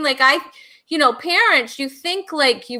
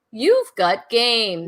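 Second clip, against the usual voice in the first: game show title; much slower than usual. Acted. Host announcing segment title.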